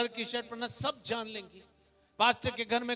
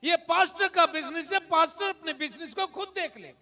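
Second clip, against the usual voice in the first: raised, emphatic sermon voice; forceful preaching; 4 semitones higher, 5 dB louder than usual. Real, not acted. Pastor challenging believers about whose business it is, forceful preaching. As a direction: drive each question and answer home.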